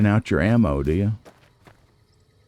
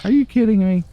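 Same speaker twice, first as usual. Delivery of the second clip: exasperated disbelief; 12 semitones higher, 4 dB louder, faster than usual. Real, not acted. Game refuses the shot.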